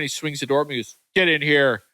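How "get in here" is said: acting out a stern officer's order; mock stern. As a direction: order them in with put-on sternness. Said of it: "he was all big stern".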